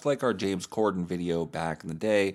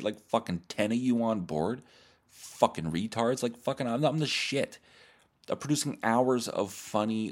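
mock rant. Scolding his fans in a hammed-up angry rant. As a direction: berate the listeners in a hammed-up huff.

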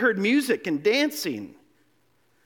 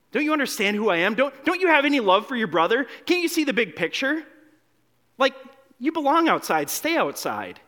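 scolding parent; 2 semitones higher than usual. Retold or imitated. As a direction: dress down the sulking child, half in jest. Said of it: "would the parents say".

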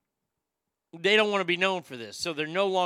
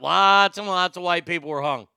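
louder, stress on lots; emphatic statement; 6 dB louder than usual. Real, not acted. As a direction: press the point home, firmly. Repeated louder as a firm point.

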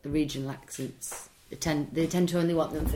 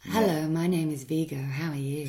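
smooth seductive ad voice; a sultry professional read; sexy voiceover voice. Shown as a demonstration. The voice actor demos the seductive voiceover for the host. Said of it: "with that voice?".

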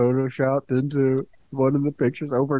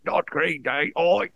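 put-on higher-pitched, botched German accent; bad German accent; 6 semitones higher, slower than usual. Podcaster mimicking angry German fans, bad German accent. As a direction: protest in a poor mock German accent. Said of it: "not what I'm doing".

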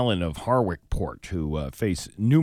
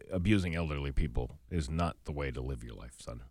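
Dean Wormer; 8 semitones lower, 10 dB quieter than usual. Pretend. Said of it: "Isn't that what, uh, Dean Wormer said?".

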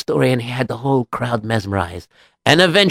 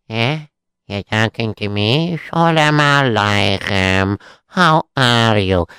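unhurried Jewish local; 2 semitones lower, slower than usual. Acted.

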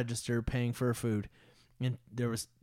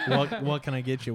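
bartender voice; 2 semitones higher, 6 dB louder than usual. Pretend. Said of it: "something a bartender would say".

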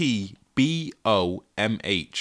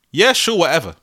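dismissive; 4 semitones higher, 4 dB louder than usual. Shown as a demonstration. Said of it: "Y S W".

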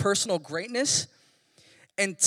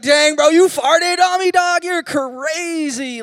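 put-on much higher, much louder teen outrage; loud classmate; 10 semitones higher, 10 dB louder, slower than usual. Schoolmate calling him out during a test, loud mock outrage. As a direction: bust a classmate for farting, loud and high.

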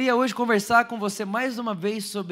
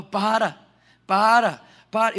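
desperate shout; 8 dB louder, slower than usual. Retold or imitated. Retold brother begging to stop.

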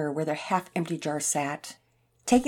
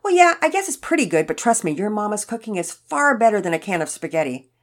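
lightly voiced old man, louder; emphatic elderly man; 4 semitones higher, 6 dB louder than usual. A narrator's reading. Elderly man praising mama's cooking to the boy, emphatic. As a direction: gently insist as an elderly neighbor.

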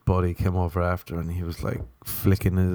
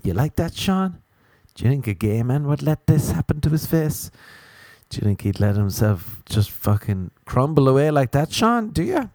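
higher, smug taunting; 5 semitones higher than usual. Pretend. Taunting Sean, his old mate, higher and smug. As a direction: crow over him, higher.

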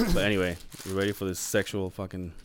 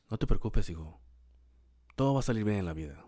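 retold comforting mom. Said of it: "and then she will say".

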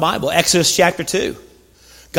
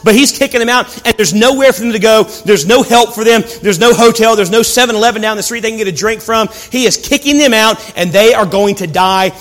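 impassioned preaching; 3 semitones higher, 3 dB louder than usual. Acted. Preacher telling congregation they are going to die, impassioned. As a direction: preach it with mounting urgency.

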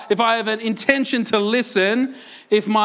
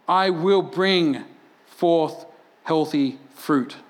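slow solemn; 4 semitones lower, much slower than usual. Acted. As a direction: lower and slow, weighty promise. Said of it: "solemn slow conclusion".

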